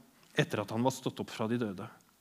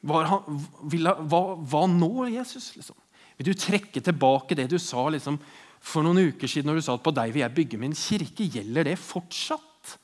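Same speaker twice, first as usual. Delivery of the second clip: agitated, halting questions to Jesus, rising in pitch; frustrated Peter. Retold or imitated. Peter questioning Jesus after denying him, frustrated. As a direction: voice Peter's inner frustration and disappointment. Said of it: "av frustrasjon og sinne og liksom skuffelse".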